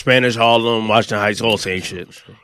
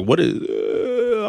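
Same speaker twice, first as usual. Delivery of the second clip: soft, drawn-out, higher-pitched stammer; scared; 3 semitones higher, 5 dB quieter, much slower than usual. Retold or imitated. Recalling being scared in Harlem, scared and drawn out. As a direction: act out a mildly scared, stretched-out reaction. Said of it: "I was scared".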